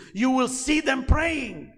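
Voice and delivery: slow preacher's shout; preaching shout. Real, not acted. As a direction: raise the voice and stretch it out. Preacher's emphatic build.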